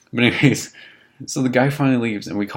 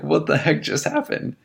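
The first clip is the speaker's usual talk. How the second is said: higher, slow incredulous question; disbelief; 7 semitones higher than usual. Retold or imitated. Roommates laughing over pee cleanup, higher and slowly incredulous. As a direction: stretch it out in disbelief.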